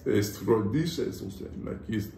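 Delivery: lightly done German accent demo. Shown as a demonstration. Asked to show a German accent, having lived there. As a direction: try out a loose German accent. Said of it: "Give us a German, German accent".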